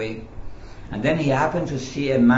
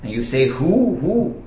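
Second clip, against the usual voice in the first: higher-pitched, mildly exasperated policeman; angry policeman; 4 semitones higher than usual. Acted. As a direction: act out a policeman's indignant complaint. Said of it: "The policeman was angry and said".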